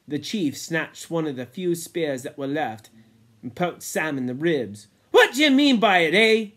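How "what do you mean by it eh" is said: fast, louder, fierce question; fierce demand. Acted. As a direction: jab the question at him fiercely. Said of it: "said the chief fiercely".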